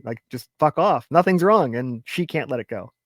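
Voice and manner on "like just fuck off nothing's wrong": louder, higher mock snap; fed-up husband barking it out; irritated snap. Husband snapping at prying wife, louder mock anger.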